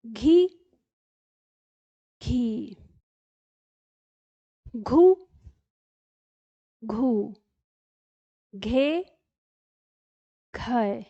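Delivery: each syllable घ, घा, घी, घू, घे spoken slowly and separately; barakhadi drill. Shown as a demonstration. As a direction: clear slow recitation of every घ syllable with pauses between. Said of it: "मेरे साथ-साथ दोहराते रहिएगा". (घ की बारहखड़ी धीरे-धीरे साफ़ उच्चारण)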